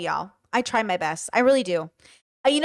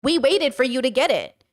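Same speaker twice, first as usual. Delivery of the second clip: drawn-out sarcastic yeah; slow, pointed retort; 2 semitones higher, slower than usual. Retold or imitated. Streamer answering men who complain, slow and pointed. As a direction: spell it out slowly, unimpressed. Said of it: "And I'm like".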